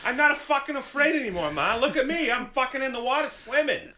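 high-pitched mock Boston whine; Boston accent. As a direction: call to Ma as a hammed-up Bostonian. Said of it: "I can't do a Boston accent".

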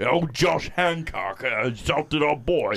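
put-on Baltimore accent. Baltimore voice, slow.

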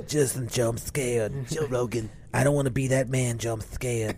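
quiet, lisping Tyson voice; soft Tyson impression. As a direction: murmur it like a scared Tyson.

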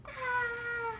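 high playful scary-clown scream; mock scary scream. Girl springing out at Grandma, high mock scream. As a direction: jump out and scream. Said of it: "I screamed".

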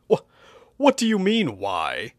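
stammer, then high puzzled question; genuinely confused. Acted. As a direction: ask in honest bewilderment. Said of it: "legitimately confused".

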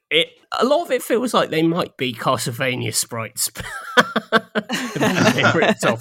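laughing through the words, high. Real, not acted. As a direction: giggle out the sentence. Laughs while describing the game.

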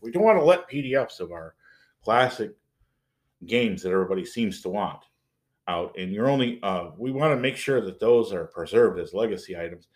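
lightly put-on company suit voice; lightly mock a fixated corporate type; mildly weird official voice. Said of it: "I'm talking in a weird voice".

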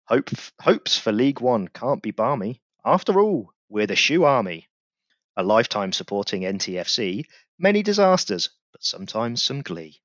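rhythmic reading of a rhyming tribute poem; a podcast host performing his verse; poem recital. Acted. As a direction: recite it like a proud fan's ode. Reads his club poem aloud.

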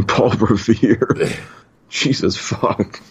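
slow, laughing disbelief. Real, not acted. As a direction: laugh the words out slowly. Incredulous laughter at old name.

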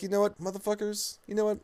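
MJF outburst. Retold or imitated. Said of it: "M J F's like".

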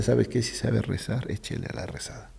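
a father's soft whispered warning; softly whispered advice to pray; hushed warning. Retold or imitated. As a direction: drop almost to a whisper, grave and low-key. Father's grave warning, retold.

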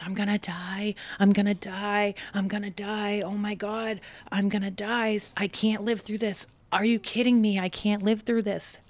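half-acted breathless panic in the back seat; a touch of remembered terror, words tumbling out; retold panic. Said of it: "I was just having a panic attack".

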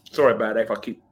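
stuffy, runny-nose voice; talking through a heavy cold. Real, not acted. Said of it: "I've got a very bad cold".

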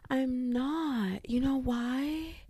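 slow secretive whisper; teasing whisper to viewers; whispered tease. Real, not acted. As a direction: lean in and whisper it.

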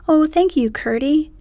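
high bright relieved thanks; grateful princess. Acted. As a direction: gush your thanks like a child.

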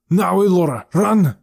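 loud, high urgent shout. A narrator's reading. Nat tells Elora to escape, urgent shout. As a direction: shout the order to flee. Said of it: "Nat shouted".

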